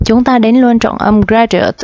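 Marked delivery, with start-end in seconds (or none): 1.2-1.8 "graduate" stressed on GRAD, the first syllable. Shown as a demonstration. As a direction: lean on the opening syllable of "graduate". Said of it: "trọng âm một nha các bạn".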